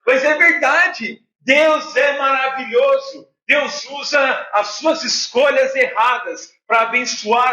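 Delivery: emphatic sermon, words driven home; preaching. Real, not acted. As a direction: preach with earnest conviction to the congregation. Returns to preaching after anecdote.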